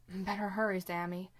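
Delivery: pushed out through a strained throat; squeezed, effortful words under strain. Acted. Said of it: "straining the back of his throat".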